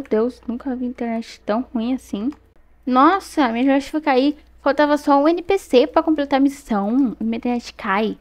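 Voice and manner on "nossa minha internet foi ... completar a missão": louder and higher, exasperated at the lag; annoyed gamer complaining aloud; frustrated outburst. Real, not acted. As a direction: vent about the crash. Internet drops mid-mission.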